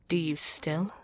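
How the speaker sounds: a hushed, unvoiced whisper. Villain asking his captive if she still refuses him, whispered. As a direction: breathe the question almost silently.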